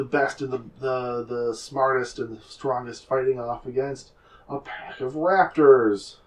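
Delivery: slow, loud showman's pitch; fight advertisement. Acted. Game master acts out banners advertising raptor fights, big promotional announcer voice. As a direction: hype the event like an arena announcer. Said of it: "it's advertising".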